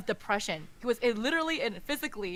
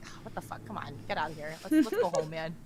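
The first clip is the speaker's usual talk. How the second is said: put-on gruff tender old man; 3 semitones lower, faster than usual. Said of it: "he comes back and he's like".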